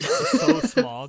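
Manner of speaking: laughing it out, slow and loud. Real, not acted. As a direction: squeal through laughter.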